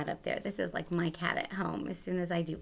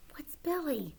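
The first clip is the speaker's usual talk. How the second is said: whisper; 7 semitones higher, 4 dB quieter than usual. Shown as a demonstration. Teacher whispers question.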